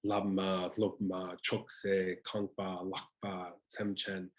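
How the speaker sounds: strong-weak on each word, from "lamma" to "semchen", separated by small pauses; trochaic word stress. Shown as a demonstration. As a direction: list "lamma, lobma, chokse" with first syllables stressed. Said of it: "it's always stressed followed by unstressed".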